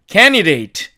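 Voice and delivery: candidate with d dropped, kenideit; native reduction. Shown as a demonstration. Teacher models the reduced form for learners. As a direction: drop the middle d of candidate. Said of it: "이렇게 발음이 되죠".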